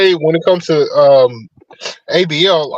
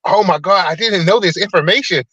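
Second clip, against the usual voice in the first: mildly higher, mocking gushing surprise; mock amazement; 4 semitones higher than usual. Mimicking people reacting to Thomas Sowell videos, mock amazed. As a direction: put on a gullible reactor's amazement.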